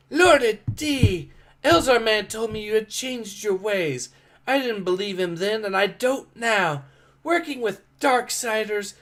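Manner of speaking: lightly voiced female character. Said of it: "I know which voice I gave her before".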